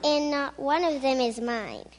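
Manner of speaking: loud, furious storybook yell; angry scream. Acted. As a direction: bellow it like a stamping Toad. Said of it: "jumped up and down and screamed".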